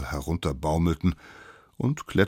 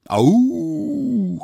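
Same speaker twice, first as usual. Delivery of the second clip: long, very high, loud whoop; excited group cry; 9 dB louder than usual. A narrator's reading. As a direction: cry out together like little savages. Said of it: "riefen die kleinen Wilden". (begeistert und hoch gejuchzt)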